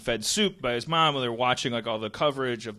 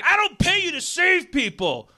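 high, loud hammed-up boss scolding, breaking into laughs; angry boss; 5 dB louder than usual. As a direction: scold him like a cartoon boss, laughing through it. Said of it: "He's like".

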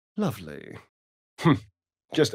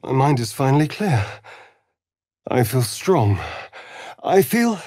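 louder, faster, giddy rush of new strength; euphoric; 6 dB louder than usual. Acted. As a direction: burst with elated energy. Euphoric after drinking blood.

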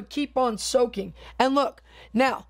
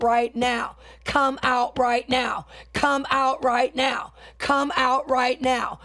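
commanding deliverance prayer. Acted. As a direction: order the spirit out, pressing each repeat. Commanding spirits to leave.

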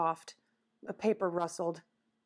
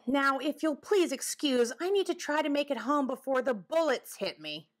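higher-pitched, formal animal character; talking woodchuck, fussy; 6 semitones higher than usual. Acted. Woodchuck leaving before the bullets hit, fussy. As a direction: excuse yourself with hurried dignity. Woodchuck takes his leave.

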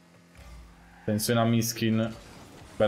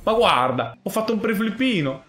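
excited shout; 7 semitones higher than usual. Real, not acted. Car glitches mid-game.

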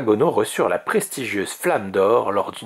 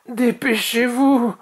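high, drawn-out urgent cry; straining high-pitched shout; urgent call; 13 semitones higher, slower than usual. A narrator's reading. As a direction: hurry them along under strain. Dragon urging team under strain.

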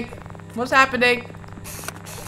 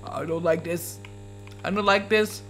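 muttered fear; 6 semitones lower, 11 dB quieter than usual. Real, not acted. After the scare.

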